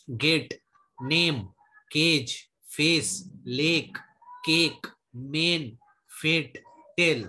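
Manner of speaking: गेट, नेम, केज with a drawn-out "ay"; slow word drill on long ए; long ए demo. Shown as a demonstration. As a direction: pronounce गेट, नेम, केज slowly, lengthening the ए. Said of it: "दीर्घ ए का मतलब क्या है".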